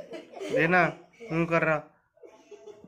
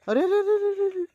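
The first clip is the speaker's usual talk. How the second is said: alarmed calling out; 13 semitones higher, 4 dB quieter, faster than usual. Real, not acted. Dog grabbing something, calling out.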